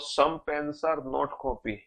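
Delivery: very slow, word by word, reading out a conclusion; slow dictation. Shown as a demonstration. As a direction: spell the conclusion out for students. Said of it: "ये बिल्कुल ठीक है।".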